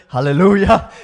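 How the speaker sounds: a loud, bright burst of praise; joyful exclamation. Real, not acted. Preacher calling out hallelujah in joy. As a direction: shout it out in thanks. Exclaiming thanks mid-testimony.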